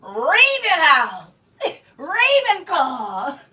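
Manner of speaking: slow, stretched, laughing proclamation; sorting hat call. Pretend. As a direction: announce it like the hat.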